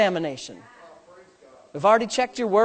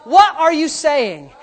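slow, louder pointed question; forceful challenge; 4 semitones higher, 6 dB louder, slower than usual. Real, not acted. Pastor presses the congregation, slow and louder. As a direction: demand an answer from the pews.

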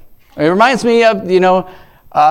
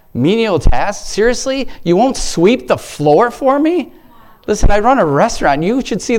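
high-pitched mock disbelief, rising questions; mock incredulous; 5 semitones higher than usual. Preacher needling those too proud for menial tasks, mock incredulous. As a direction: draw out the last question in feigned amazement.

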